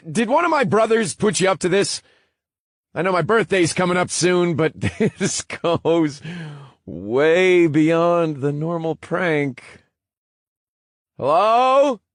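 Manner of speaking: high, loud, laughing disbelief; nervous laughing shout. Acted. Drake laughing nervously, calling out.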